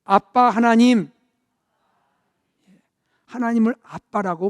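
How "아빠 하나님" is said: slow, tender call of Dad God; a child calling Dad tenderly. Shown as a demonstration. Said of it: "한번 좀 다정하게 불러보세요".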